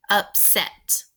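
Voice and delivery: "Upset" in two separate syllables; split into syllables. Shown as a demonstration. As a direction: say "Upset" with a clear break between syllables. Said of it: "Divide that word into two syllables".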